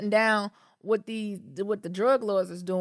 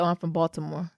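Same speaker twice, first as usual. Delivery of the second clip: put-on Baltimore accent; 4 semitones lower, 4 dB quieter than usual. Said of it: "They don't even say Baltimore".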